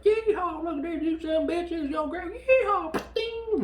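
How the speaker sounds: very high, loud hollering redneck; over-the-top redneck yell; whooping redneck. Retold or imitated. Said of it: "our redneck friend is with us".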